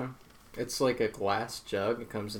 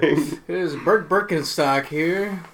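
news anchor voice; 4 semitones higher, 8 dB louder than usual. Pretend. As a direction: introduce yourself like a TV reporter. Put-on newsreader intro.

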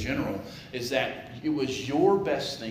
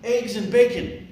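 chicken voice; 11 semitones higher, 8 dB louder than usual. Acted. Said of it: "Chicken goes".

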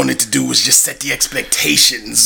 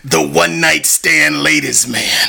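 ring announcer. Acted. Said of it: "fire introduction".

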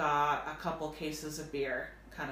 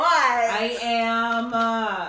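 loud indignant protest; 6 semitones higher, 12 dB louder, much slower than usual. Real, not acted. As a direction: insist it, loudly. Arguing back at friend.

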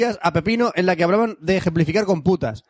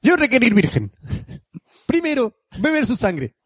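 broken-Spanish monster; 4 semitones higher than usual. Acted. Reader plays a monster demanding a virgin, hammed-up broken Spanish. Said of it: "¿Pero qué dice?".

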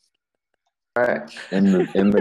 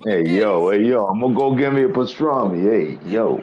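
quick Brooklyn street talk; lightly hammed Brooklyn accent. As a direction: call out like a regular Brooklyn guy. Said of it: "talk like a regular Brooklyn".

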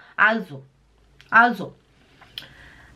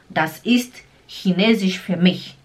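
slow, careful German phrase; frase falada devagar; 3 semitones lower than usual. Shown as a demonstration. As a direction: say it slowly for the learner. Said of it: "você fala a tal frase". (frase em alemão, devagar e clara)

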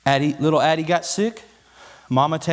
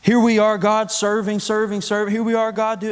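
mock weary complaint; 4 semitones higher, 3 dB louder than usual.

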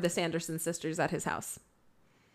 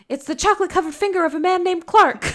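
laughing quote; 10 semitones higher, 5 dB louder, faster than usual. Retold or imitated. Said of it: "she's like".

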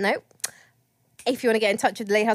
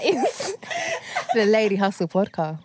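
laughing through the words; cracking up mid-sentence; 11 semitones higher, slower than usual. Real, not acted. Cracks up mid seductive plug.

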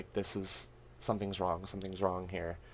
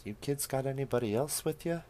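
put-on old woman voice; 6 semitones higher than usual.

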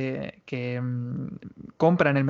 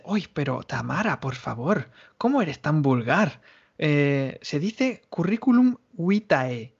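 a hint of a prim teacher; slower than usual. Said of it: "yo tuve una profesora".

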